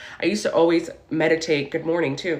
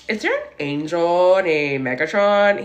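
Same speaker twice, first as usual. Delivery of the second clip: retold earnest question; 3 dB louder than usual. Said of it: "And I was like".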